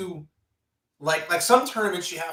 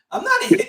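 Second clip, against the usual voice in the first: NOT hit high and loud; stressing not; emphatic not; 8 dB louder, faster than usual. Retold or imitated. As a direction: insist on the word not. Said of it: "I go".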